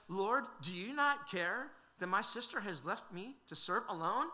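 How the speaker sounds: Martha sounding a touch perturbed at Jesus; a hint of an accusing sister. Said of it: "a bit perturbed with Jesus".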